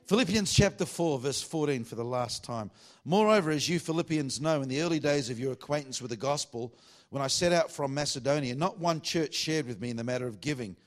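projected Bible reading from the pulpit; scripture reading. Acted. Preacher reading Paul's letter to the congregation, projected scripture reading. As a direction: read the verse out to a full room.

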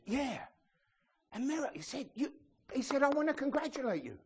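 high-pitched comic congratulation; mock congratulation. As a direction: pitch it up like a gushing comedian. Acting out a British comedian's routine.

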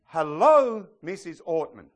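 a store clerk greets the pastor's wife warmly; cheery clerk greeting. Retold or imitated. Cheery shop greeting.

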